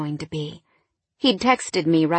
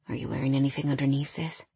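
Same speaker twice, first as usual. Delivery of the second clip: soft whisper; 4 semitones lower, 7 dB quieter, faster than usual. A narrator's reading. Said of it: "whispered softly in my ear".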